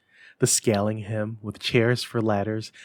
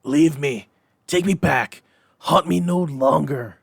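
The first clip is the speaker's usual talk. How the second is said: loud, high frantic cries; desperate shouting; 5 semitones higher, 7 dB louder than usual. Acted. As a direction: shout while struggling to break free. Scrooge wrestling the ghost.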